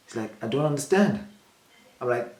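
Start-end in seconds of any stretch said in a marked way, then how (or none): 0.4-1.3 imitating someone playing dumb; raised, mildly puzzled retelling; feigned confusion. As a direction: act as if you don't follow. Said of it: "acting like he doesn't understand".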